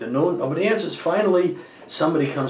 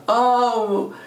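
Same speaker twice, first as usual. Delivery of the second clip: high, slow, tearful child's plea, lightly imitated; crying child; 6 semitones higher, slower than usual. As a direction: mimic a weeping kid complaining to his mother. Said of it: "One of the kids is crying and screaming to the mother".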